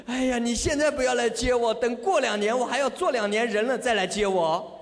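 hammed-up anxious plea; mock fright. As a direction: play at begging off in alarm. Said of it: "吓坏了". (假装害怕地推辞)

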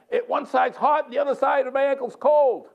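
hammed-up astonishment at a strange sensation; amazed, retold. Healed man's amazed report, acted.

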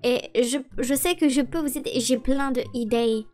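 put-on French spoken with a mild American accent; Emily's lightly put-on American accent in French. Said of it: "avec votre accent ridicule".

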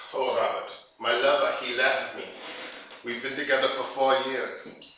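put-on low, downcast German accent. Jilted German man confides in a stranger, German accent. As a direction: lament in an imitated German accent. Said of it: "He was German".

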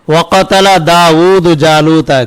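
slow recitation of the verse; measured Quranic reading. Shown as a demonstration. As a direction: chant the verse in one measured line. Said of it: "কি বললাম?".

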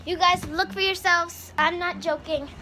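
high, loud excited yelling. Real, not acted. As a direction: call out to the others, worked up. Startled by a lizard.

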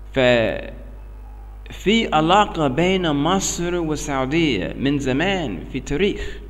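American-accented broken Arabic; learner's Arabic with an American accent. Real, not acted. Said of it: "عربي مكسر".

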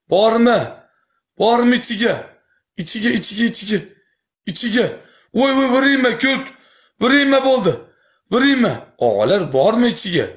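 excited calling out. Real, not acted. Excited streamer calling out bets.

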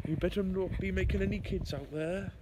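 put-on posh scolding; posh accent. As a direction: tell him off in posh voice. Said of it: "stop trying to make an accent".

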